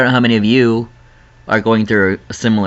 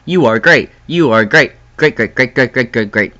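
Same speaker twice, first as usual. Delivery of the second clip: alarm voice. Pretend. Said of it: "little alarm going off".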